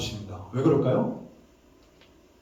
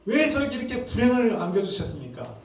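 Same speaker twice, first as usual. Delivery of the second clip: acted aggrieved protest, high then easing down; angry reproach; 3 semitones higher than usual. Job demanding answers from God for his losses, mildly angry retold reproach. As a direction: plead and accuse in a retold voice, higher at first. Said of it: "욥이 하나님께 막 화를 내는 겁니다".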